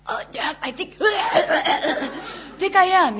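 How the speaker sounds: laughing back at dad; laughing reply. Retold or imitated. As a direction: laugh through the answer.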